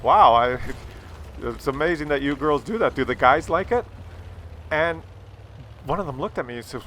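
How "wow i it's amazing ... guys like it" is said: polite retold small talk; a touch of polite interest; politely. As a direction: keep it politely chatty. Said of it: "politely talking to them".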